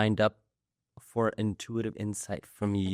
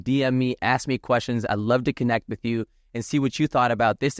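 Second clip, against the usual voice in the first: louder, upbeat promo voice; host plugging his sites; podcast ad read; 4 dB louder than usual. Acted. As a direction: pitch the sponsors with energy.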